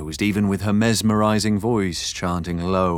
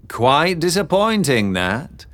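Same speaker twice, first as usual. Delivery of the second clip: drawling gentleman voice; 7 semitones higher, 3 dB louder than usual. Acted. Stanhope's aside.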